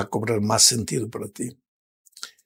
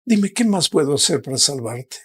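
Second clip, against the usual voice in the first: pleading Jesus; 4 semitones higher than usual. Acted. Jesus pleads with the lost son to surrender, rising, urgent. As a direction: beg the son to give in. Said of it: "el Señor Jesús te mira y te pregunta".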